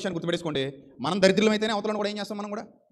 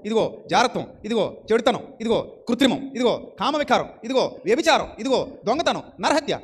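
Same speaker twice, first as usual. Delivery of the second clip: building list of sins; 4 dB louder, slower than usual. Real, not acted. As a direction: pile the sins up, louder and louder. Preacher listing sins, building. (ప్రతి పాపంతో గొంతు పెంచుతూ)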